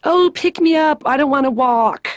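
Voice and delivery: hammed-up childish complaint, drawn from on high; passive-aggressive baby. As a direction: mimic a manipulative baby begging. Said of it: "passive-aggressive".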